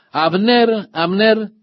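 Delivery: high call across to the far hill. Retold or imitated. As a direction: call his name out over the distance. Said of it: "él llamó".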